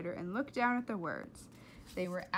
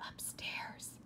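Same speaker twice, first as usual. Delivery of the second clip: whispered reply; 11 dB quieter than usual. A narrator's reading. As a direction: hush it back. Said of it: "Flora whispered back".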